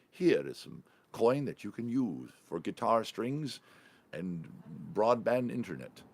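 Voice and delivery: slow, hammed-up olde English patron; mock olde English accent. Patron handing a musician coin, mock olde English accent. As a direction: play a grand old-world patron in olde English. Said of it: "I put the accent on".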